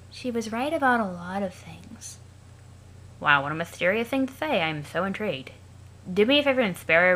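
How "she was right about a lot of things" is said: lifeless, monotone Aradia; flat as if long dead. Acted. Aradia asks Sollux about teams, in a dead monotone. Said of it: "that's how I'll be reading Aradia".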